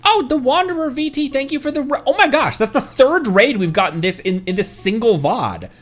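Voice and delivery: high, surprised streamer greeting; thrilled to get raided; excited. Real, not acted. Surprise raid arrives.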